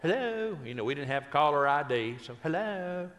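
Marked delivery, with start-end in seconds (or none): 0.0-0.6 high, chirped phone greeting; mock a perky woman picking up; perky hello. Wife answering without caller ID, perky. 2.4-3.1 higher-pitched mock phone greeting; perky hello. Wife answering without caller ID, perky.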